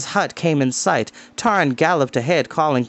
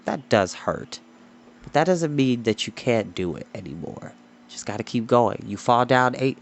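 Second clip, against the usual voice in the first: softer, heartfelt talk to listeners; sincere aside; 3 semitones lower, 3 dB quieter than usual. Real, not acted. Reader to listeners, softly encouraging.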